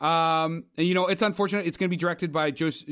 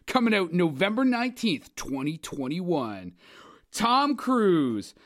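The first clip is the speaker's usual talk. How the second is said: hyped movie announcer; slower than usual. Acted. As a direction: sell the blockbuster with over-the-top excitement. Movie announcer reading the cast.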